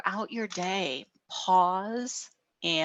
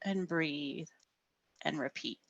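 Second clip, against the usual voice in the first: softer, trailing off; soft and fading; 2 semitones lower, 8 dB quieter than usual. Shown as a demonstration. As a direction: let it fade gently.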